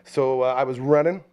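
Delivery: ordinary delivery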